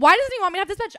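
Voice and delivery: hammed-up high, loud wail; retold tearful protest. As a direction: reenact a distraught, wounded plea. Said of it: "I'm trembling and crying".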